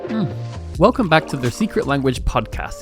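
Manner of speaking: usual speaking voice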